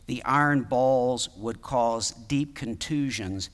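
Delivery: even, measured reading voice; article read aloud. Real, not acted. Preacher reading a medical article on scourging to congregation, even reading. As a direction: read it out evenly, like a journal article.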